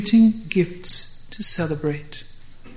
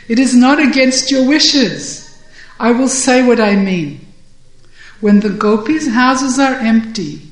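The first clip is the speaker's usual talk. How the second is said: laughing; 4 semitones higher, 6 dB louder than usual. Acted. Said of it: "Purnamasi laughs and she says".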